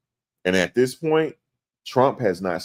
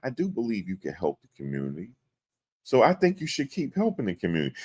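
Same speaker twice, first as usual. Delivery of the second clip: mock sarcastic judge; 4 dB quieter than usual. Judge praising a rapper's community help, mildly sarcastic. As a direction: imitate a judge giving hollow encouragement. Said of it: "he being sarcastic with him now".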